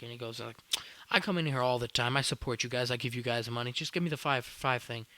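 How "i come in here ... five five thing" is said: retold loud, insistent complaint; raised voice, mock indignant demanding; indignant customer demand. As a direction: press your case loudly, like an entitled customer. Acted quarrel over sandwich deal.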